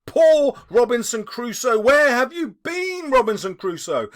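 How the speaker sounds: a hint of a squawking parrot, high. Scrooge echoing the parrot's call to Crusoe. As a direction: lightly mimic a parrot calling. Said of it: "he called him".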